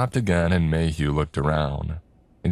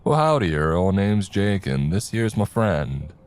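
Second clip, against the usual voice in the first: a hammed-up cowboy drawl, opening high; badly faked Southern twang, mocking the client; awful fake Southern accent; 4 semitones higher than usual. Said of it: "the awful accent that Jake was attempting".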